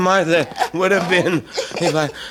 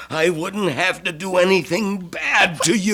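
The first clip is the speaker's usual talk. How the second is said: sinister laugh. Acted. Killer's menacing laugh to victim.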